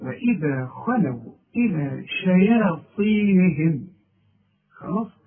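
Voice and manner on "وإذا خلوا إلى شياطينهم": slow, measured tajweed reading; slow Quran recitation. Shown as a demonstration. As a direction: recite each letter its due. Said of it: "تدي كل حرف حقه". (تلاوة مرتلة بطيئة)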